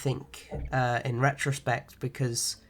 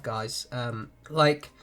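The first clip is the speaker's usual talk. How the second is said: stuffy nose, nasal tone; nasal sick voice. Real, not acted. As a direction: talk through a blocked nose. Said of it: "tell from my nasally voice".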